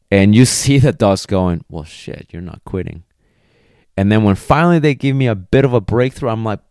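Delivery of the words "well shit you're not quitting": much softer, resigned dog giving up; defeated dog. Retold or imitated. Dog admitting the trainer won't quit, soft and resigned. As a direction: let it drop quietly like a beaten dog.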